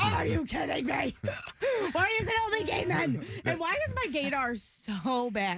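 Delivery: mock exasperation. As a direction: play up the dismayed complaint. Retelling her exasperated outburst at men.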